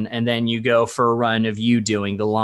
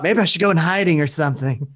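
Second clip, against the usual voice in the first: mock panic; 4 semitones higher than usual. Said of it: "I'd be like".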